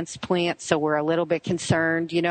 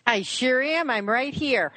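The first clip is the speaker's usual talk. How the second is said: higher-pitched, cheerful reply; cute, cheering voice; 7 semitones higher than usual. Real, not acted. Guest answering the host after the break, cute and cheering. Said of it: "that voice on the other end".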